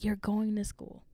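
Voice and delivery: hissed, voiceless command; stern whisper. Retold or imitated. Mom yanking the sheet back, whispering the order hard. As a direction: whisper it like a final order through the teeth.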